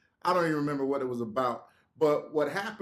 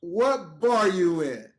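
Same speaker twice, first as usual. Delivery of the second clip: slow, louder insistent question; firm demand, drawn out; 5 dB louder, much slower than usual. Retold or imitated. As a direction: press the question, stretching it out. Asks again after being laughed off.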